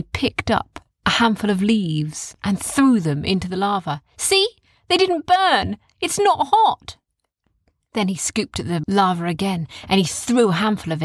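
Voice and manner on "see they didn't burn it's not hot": put-on higher boy's voice, easy; reassuring, matter-of-fact child. A narrator's reading. Oren explains to Arthur, in a higher voice.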